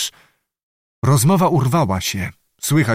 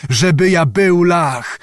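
slow, higher raised cry; indignant cry; 5 semitones higher, 4 dB louder, slower than usual. A narrator's reading. Bohun repeats his protest to the witch, crying out. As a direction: draw out the pained exclamation. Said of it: "zawołał Bohun".

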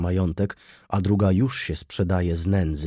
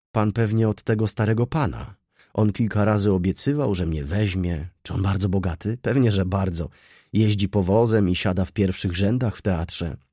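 lightly voiced eager girl; 3 semitones higher, 4 dB louder than usual. Girl asking Wokulski about the old gentleman, lightly voiced eagerness. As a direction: lightly play a girl excited by a rich man.

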